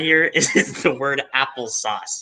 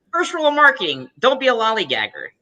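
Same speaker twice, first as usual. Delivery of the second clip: put-on old-time talk; 6 semitones higher than usual. Mimicking old-time slang.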